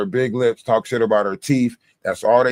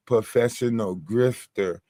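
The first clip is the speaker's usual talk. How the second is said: slow, understated mock pronouncement; imitating TikTok woman; 4 dB quieter than usual. TikTok woman insisting on her job title, slow imitation. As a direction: draw out both words as her title. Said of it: "That's how she say it".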